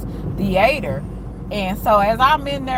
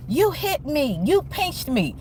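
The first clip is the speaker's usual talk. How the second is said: put-on whiny kid accusing; 5 semitones higher, 4 dB quieter than usual. Boy falsely accusing her.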